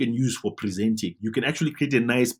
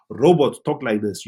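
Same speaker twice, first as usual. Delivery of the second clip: flat, even robotic monotone on Robots talk like this; 4 dB louder than usual. Shown as a demonstration. Teacher showing clients a flat robotic delivery. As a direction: drone it out like a machine with no expression. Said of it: "Don't be a robot".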